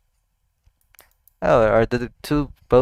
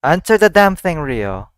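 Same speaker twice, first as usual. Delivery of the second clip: yelled order; 3 semitones higher, 5 dB louder than usual. Real, not acted. Yelling at the character.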